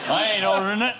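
comic mock-American accent; put-on American accent. Refusing the lousy lunch as a joke, put-on American accent. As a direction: play the line as a joking American. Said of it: "putting on an American accent".

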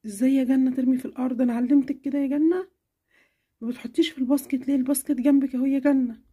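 mother scolding daughter over tissues, stern. Acted. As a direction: scold her for the mess.

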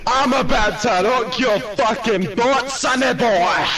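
British tough-guy mock threat; put-on British accent. Staff member threatening sonny boy, blustering British accent. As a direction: play a blustering British bruiser. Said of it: "You do that accent so well".

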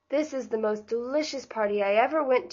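talking through a mouthful of honey; mouth full. Acted. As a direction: mouth full, words muffled by food. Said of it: "with her mouth full of honey".

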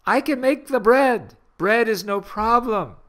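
lightly voiced Jesus. Jesus voiced, higher, louder.

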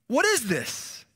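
a mildly astonished bystander asking; lightly voiced amazed crowd member; puzzled crowd voice. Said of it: "they questioned among themselves".

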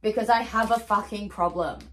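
over-the-top admission of a problem; dramatic. Acted. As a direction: ham up the confession. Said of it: "That was dramatic".

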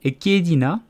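high-pitched curious question; lightly voiced inquisitive bird; inquiring lory. A narrator's reading. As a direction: ask with lifted, courteous curiosity. Lory politely asks a question.

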